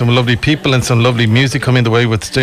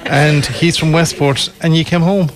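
slow words through a chuckle; laughing; 3 semitones higher than usual. Real, not acted. Host laughs while teasing guest.

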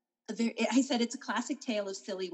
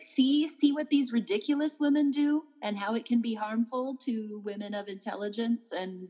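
scolding preacher; 3 semitones higher, 3 dB louder than usual. Retold or imitated. Voicing Austen's scolding message.

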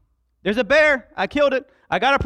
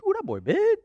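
high, hushed soldier gawking at the giant; a soldier's wide-eyed hush; awed soldier; 11 semitones higher than usual. Retold or imitated. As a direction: play a soldier staring up in awe. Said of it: "And they say".

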